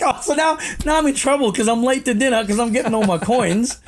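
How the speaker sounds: mildly hammed-up exasperation; exasperated complaint. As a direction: replay your own put-upon whine. Retold exasperated complaint in a story.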